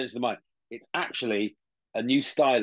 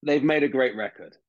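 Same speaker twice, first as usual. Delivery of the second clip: mock pretentious bloke. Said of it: "this is a pretentious one".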